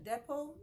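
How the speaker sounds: depot with the final T left off; silent T in depot. Shown as a demonstration. Teacher showing learners the first option, depot with silent T. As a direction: say depot without its T. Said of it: "The T is silent".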